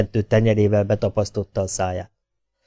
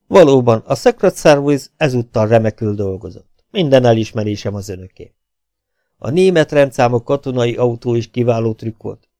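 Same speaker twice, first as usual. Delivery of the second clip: a lightly voiced, louder baron savouring his win; gloating baron; 2 semitones higher, 4 dB louder than usual. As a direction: taunt the captured spies with mock politeness. The baron gloats over captured spies. (gúnyosan diadalmas báró, enyhén megszólaltatva)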